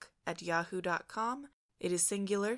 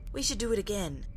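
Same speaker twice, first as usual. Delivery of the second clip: put-on excited boy; 5 semitones higher, 6 dB louder than usual. A narrator's reading. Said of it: "young Alexander was saying".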